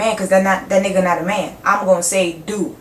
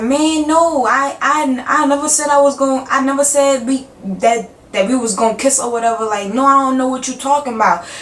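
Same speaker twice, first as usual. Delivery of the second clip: higher, fast flustered denial; boyfriend playing dumb; 4 semitones higher than usual. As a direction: mimic his panicky high denial. Boyfriend denies kissing.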